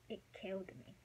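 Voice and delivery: whispered ache, barely voiced; hushed. Real, not acted. Telling how losing her best friend felt, whispered. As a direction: let the words fall away to a whisper.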